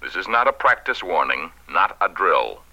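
solemn emergency radio announcement; grave civil defense broadcast. Acted. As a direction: read it like an official alert. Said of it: "this two-page speech for the radio announcer".

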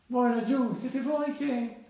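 high, loud distant hail; storybook shout, pitched well up; calling out. Acted. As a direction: call across to those over there. Mole calls to figures further off.

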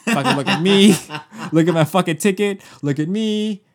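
loud, taunting look at me; mocking show-off voice. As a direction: show off your ticket to the whole row. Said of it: "They're doing the whole".

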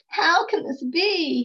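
crying out in wonder. Acted. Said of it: "he cried".

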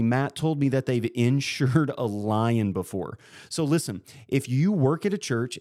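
upbeat sponsor read, numbers slowed. Acted. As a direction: read it like a podcast ad spot.

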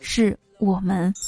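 tender. Shown as a demonstration. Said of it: "你温柔地告诉他".

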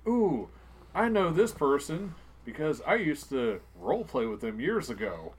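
mock-excited self quote turning to laughter; imitating excited recognition. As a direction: gush with recognition. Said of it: "I could be like".

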